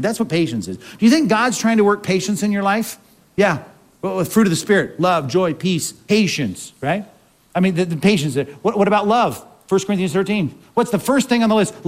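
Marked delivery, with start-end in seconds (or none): none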